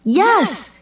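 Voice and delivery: narrator's understated shout; mild shout. A narrator's reading. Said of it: "he shouted".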